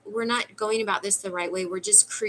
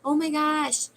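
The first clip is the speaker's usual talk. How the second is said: higher, playful mock alarm; mock panic; 4 semitones higher than usual. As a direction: ham up the sudden realization. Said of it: "now we're like".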